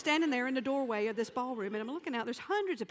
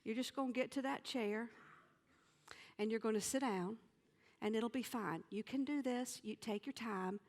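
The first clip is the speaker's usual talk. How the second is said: quick, softer self pep talk; pep talk to herself; 3 semitones lower, 6 dB quieter, faster than usual. Retold or imitated. Coaching herself to reach the chair, quick and quiet. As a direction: coach yourself under your breath. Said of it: "I said".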